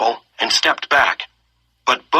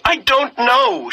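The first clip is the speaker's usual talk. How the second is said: high, slow choked words; 11 semitones higher, slower than usual. A narrator's reading. Girl crying to the soldier, choked and high. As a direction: voice catching as she fakes tears. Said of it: "her voice choked".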